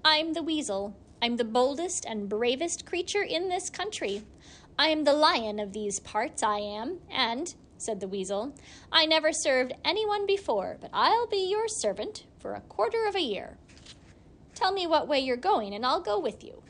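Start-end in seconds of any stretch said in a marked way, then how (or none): 0.0-7.5 sly hissing weasel. Acted. Weasel boasts to Gilly. 8.9-16.6 high, proud little weasel voice; sly hissing weasel. Acted. Weasel offers service.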